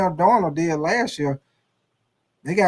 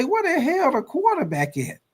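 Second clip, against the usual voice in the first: teammate yelling; 9 semitones higher than usual. Acted. Teammates yell for missing quarterback.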